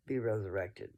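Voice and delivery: normal talking voice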